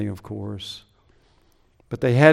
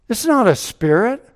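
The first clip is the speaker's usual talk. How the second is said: high and loud, punching "not"; emphatic proclamation; 9 semitones higher, 4 dB louder than usual. Acted. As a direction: proclaim "not" hard, the peak of the sermon. Preaching climax on resurrection.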